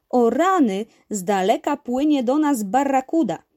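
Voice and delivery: storybook uncle spotting danger; alarmed warning. Acted. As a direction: warn the others urgently. Uncle's imagined warning about barracuda.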